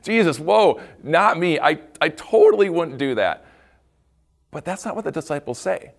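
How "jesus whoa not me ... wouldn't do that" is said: laughing, slightly louder whoa denials; laughing protest. Pretend. Disciple to Jesus at supper, laughing mock denial. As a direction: laugh it off, a touch of mock panic. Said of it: "Wouldn't you instantly go".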